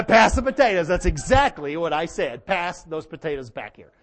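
loud, high comeback; hammed-up booming demand; defiant mock shout. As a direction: call down the table in mock defiance. Acts out his defiant comeback at dinner.

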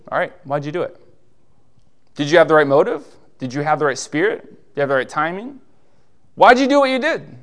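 encouraging. Retold or imitated. The Lord asks about a good deed, encouraging. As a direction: coax the good answer out. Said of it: "He brings up a good deed and said".

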